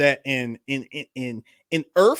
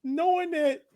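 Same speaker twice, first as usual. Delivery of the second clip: laughing; 8 semitones higher than usual. Real, not acted. Laughing while describing scene.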